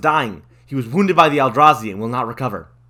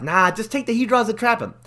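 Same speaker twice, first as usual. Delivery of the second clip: lightly voiced dragon mentor; 9 semitones higher than usual. Old dragon Ugin brushing off Jace, lightly voiced, high and casual. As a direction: brush off the question like a chill surfer. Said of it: "Ugin's all like".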